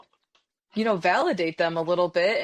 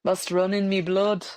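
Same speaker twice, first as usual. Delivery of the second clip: mock English accent. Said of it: "I don't know what that was".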